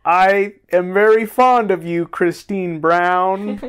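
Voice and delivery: slow monotone voice; flat, slow, no ups and downs. Retold or imitated. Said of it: "He talks very much like this".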